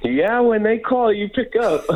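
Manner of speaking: amused, high-pitched reply through a chuckle; laughing agreement. Real, not acted. Laughing reply to host's joke.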